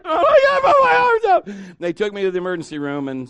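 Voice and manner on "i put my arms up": very high, loud mock sobbing wail; drawn-out garbled cry, hammed up; bawling child. Child bawls to his mother.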